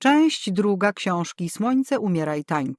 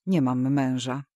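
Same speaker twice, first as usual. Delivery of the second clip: coldly; 5 semitones lower than usual. A narrator's reading. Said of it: "odparłam zimno".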